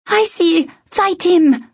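high-pitched urgent cry; urgent yell. A narrator's reading. Tern urging Icy to fight the puppeteer, urgent yell. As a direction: call out to spur a friend into battle.

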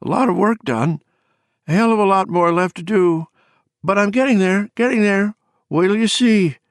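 very high, wavering croak; Bobby. A narrator's reading. Exhausted woman boasting of her work to a friend, wavering croak. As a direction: push it out high, loud and wavering. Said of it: "croaked in her wavering voice".

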